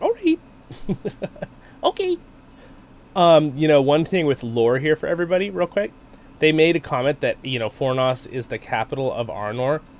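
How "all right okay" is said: tiny, very high, squeaky little voice. Player answering a quest-giver in the game, little hobbit voice. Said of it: "This is where I do my little hobbit voice".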